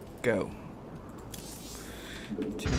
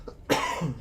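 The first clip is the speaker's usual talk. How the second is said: sneezing; 2 semitones higher than usual. Real, not acted. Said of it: "Sorry for my sneezing".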